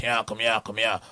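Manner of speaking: light imitation of a Dublin Irishman; imitated Irish accent. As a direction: put on a bit of an Irish guy's accent. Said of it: "an Irish guy saw me in Dublin".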